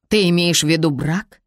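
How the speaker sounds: ordinary delivery, nothing marked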